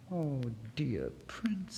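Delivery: soft, slow unvoiced whisper. Swallow whispering tenderly to the prince. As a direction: breathe it gently to the prince. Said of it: "said the swallow".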